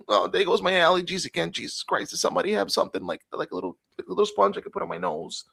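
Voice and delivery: put-on high, whining Jewish accent. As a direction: fret and moan in a hammed-up Jewish accent. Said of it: "working too much on my Jewish accent".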